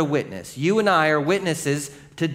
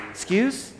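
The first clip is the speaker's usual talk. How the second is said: indignant disbelief; 8 semitones higher, 3 dB quieter than usual. Retold or imitated. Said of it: "the disciples are like".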